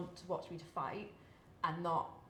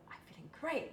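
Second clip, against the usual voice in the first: forced cheer; 10 semitones higher than usual. Retold or imitated. Her forced upbeat answer.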